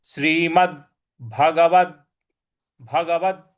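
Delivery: भगवद with the final द struck; भगवद demo; stress on द. Shown as a demonstration. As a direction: hit the द of भगवद. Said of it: "इस पर भी हमको आघात देना है".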